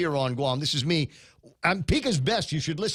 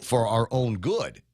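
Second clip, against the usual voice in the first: sarcastic quote; 3 semitones lower, slower than usual. Retold or imitated.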